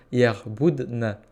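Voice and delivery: "Yerboudna" repeated very slowly, syllable by syllable. Shown as a demonstration. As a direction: stretch "Yerboudna" out for learners to copy.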